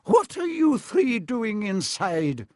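high, slow, stern professor's voice; startling demand from Professor McGonagall; ringing challenge. A narrator's reading. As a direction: call sternly across a hall. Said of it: "a voice suddenly rang across the hall".

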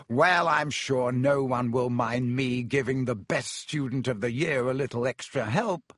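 warmly. Acted. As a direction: say it like a gracious favour. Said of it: "said Lockhart warmly".

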